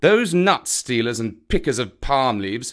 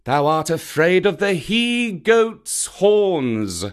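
mock-sweet taunting, higher at the jabs; sweetly; 4 semitones higher than usual. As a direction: feign sweetness while goading the snake. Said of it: "Bagheera went on sweetly".

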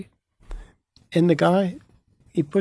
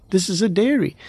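retold astonishment, pitched up; astounded; 4 semitones higher than usual. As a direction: marvel at it, mildly amazed. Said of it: "I'm astounded. I'm saying".

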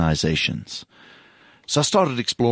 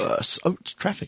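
whisper; 10 semitones higher, 5 dB quieter than usual. Real, not acted. Joking aside.

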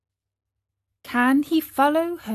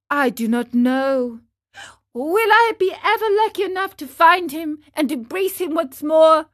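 put-on higher, quick, hopeful puppet boy; Pinocchio's eager voice; 5 semitones higher, 5 dB louder, faster than usual. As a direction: pour out the wish like an eager little boy.

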